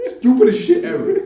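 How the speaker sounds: 边笑边高声说出; high laughing exclamation. Real, not acted. Laughing punchline.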